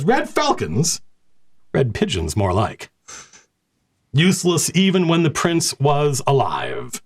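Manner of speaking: mock the rival company with contempt; scornful knight. Knight commander mocking the Red Falcons, sneering.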